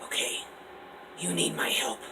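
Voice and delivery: soft, hushed eerie tone; calmer voice. Acted. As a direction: settle down and whisper the warning. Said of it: "His voice calms".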